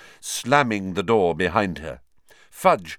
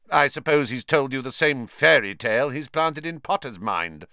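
spat; 4 semitones higher than usual. Acted. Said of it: "spat Snape".

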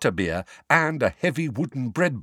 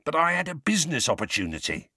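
pleading; 6 semitones higher, faster than usual. Acted. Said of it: "a pleading note in his voice".

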